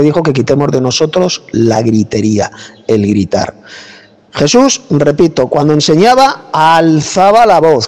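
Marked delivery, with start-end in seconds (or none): 4.3-7.9 raised teaching voice. Real, not acted. Debater insisting that Jesus taught this way, raised voice. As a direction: lift the voice to teach, without shouting. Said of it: "como yo la estoy alzando ahora mismo".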